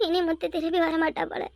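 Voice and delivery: tearful lament breaking into a cry; weeping. Acted. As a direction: mourn her through tears. Mother weeps over daughter. (அழுகையுடன் புலம்பல்)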